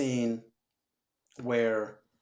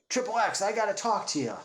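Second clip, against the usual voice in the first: Sam Jackson impression; 7 semitones higher than usual. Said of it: "it's Sam Jackson, and he's like".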